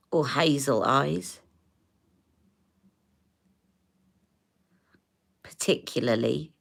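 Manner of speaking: talking while applying mascara. Real, not acted. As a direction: mascara face, mouth stretched. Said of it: "Sorry, I'm doing my mascara face".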